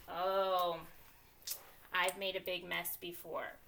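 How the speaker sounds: "oh" of recognition, then settling; mild acted realization; thinking voice realization. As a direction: let a memory pop in. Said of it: "my thinking voice is popping in and saying".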